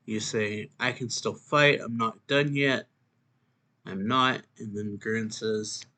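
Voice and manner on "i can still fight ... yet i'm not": acted defiance, pitched up; defiant insistence. Trainee kicked around by his teacher, defiant insistence. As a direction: insist on it, refusing to give in. Trainee refusing to quit fighting.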